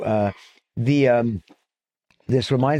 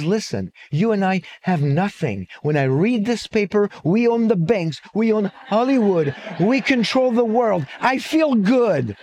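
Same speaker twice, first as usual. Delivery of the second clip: put-on smug old man; 6 semitones higher than usual. Poor friend explains his pleasure.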